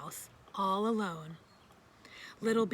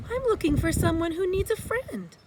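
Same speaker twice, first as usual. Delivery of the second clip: higher and louder, calling out; calling across the pond; 8 semitones higher, 7 dB louder than usual. A narrator's reading. Little Beaver calling to the lonely duck, raised and hopeful. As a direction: call out hopefully across the water. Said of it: "said Little Beaver".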